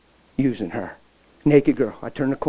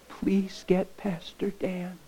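dying plea; 5 semitones higher, 6 dB quieter, much slower than usual. Retold or imitated. Dying mother's last request.

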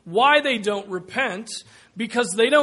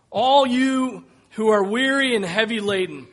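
voiced call; 2 semitones higher, 5 dB louder than usual. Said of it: "he shouts to the people".

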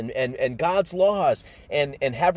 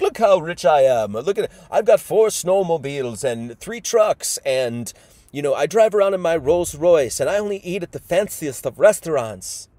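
louder, lightly put-on bragging; boastful show-off; 2 semitones higher, 5 dB louder than usual. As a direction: brag like a show-off, punching the boasts. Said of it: "go around and be like".

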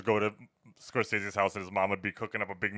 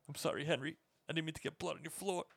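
mock meek apology; 6 semitones higher, 10 dB quieter, faster than usual. Quoting the apologetic killer.

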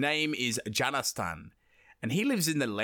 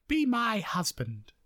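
higher, slow seductive plea; imitating demoness; 8 semitones higher, slower than usual. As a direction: slowly coax him in a high voice. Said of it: "she's like".

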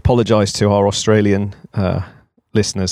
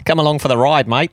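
Eddie Jones Aussie impression; 4 semitones higher than usual. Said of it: "so many impressions ... of Eddie Jones".

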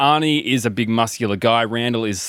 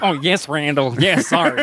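higher, hammed-up apologetic underling; put-on flustered assistant; 4 semitones higher than usual. Assistant to Randall over another door, mock flustered voice. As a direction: apologise as a mock servile helper.

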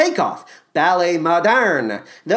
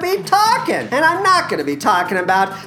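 a hammed-up, self-important star voice pitched higher; Matthew Broderick impression; 3 semitones higher than usual. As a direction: play a vain film star plugging coffee, lightly put on. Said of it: "for Matthew Broderick to do".

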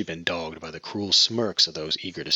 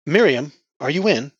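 much higher, louder call; 8 semitones higher, 9 dB louder than usual. Acted. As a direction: call into the room. Calling through the door.

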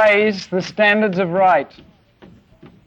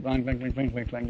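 mock clanging piano; 5 semitones lower, 12 dB quieter than usual. Imitating silent film soundtrack.

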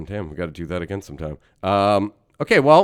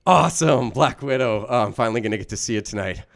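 excited moviegoer; 3 semitones higher, 3 dB louder than usual. Acted. Excited moviegoer in improv scene.

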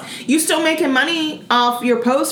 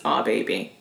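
quiet mock lyric; 10 semitones lower, 6 dB quieter than usual.

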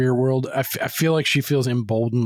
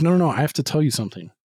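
hurried urgent interjection; 3 semitones higher, much faster than usual. Retold or imitated. Retold urgent confession, repeated.

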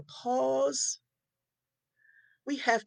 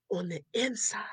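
whisper. Real, not acted. Whispered aside in sermon.

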